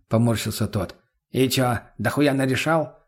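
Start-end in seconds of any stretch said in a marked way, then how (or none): 1.3-3.0 slow, taunting question; smirking. A narrator's reading. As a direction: needle him in a put-on drawl. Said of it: "ухмыльнулся мутный". (с ухмылкой, растягивая слова)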